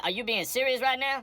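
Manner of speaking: tiki-pitch disbelief, pushed up high; can't believe what he's hearing; incredulous. Acted. Judge incredulous at odd request.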